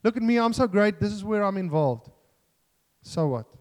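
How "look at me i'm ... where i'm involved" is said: self-righteous boasting. Acted. Preacher voicing self-righteousness to the church, mock boasting. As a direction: show off with hammed-up self-importance. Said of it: "that self-righteous is".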